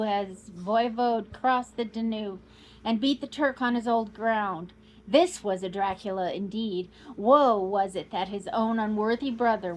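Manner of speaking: put-on loud proud old Count, declaiming; boasting Count. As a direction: thunder out the glory of his race. Count boasts of his race.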